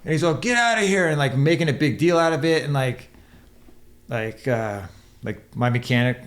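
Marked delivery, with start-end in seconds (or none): 0.4-1.1 higher mock snap of an irritated bartender; lightly acted bartender shooing people out; annoyed bartender. Bartender telling drinking riders to leave, mock irritated. Bartender voiced kicking them out.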